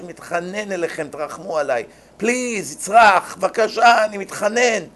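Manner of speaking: pleading sinner. Acted. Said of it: "בן אדם יצרח להשם".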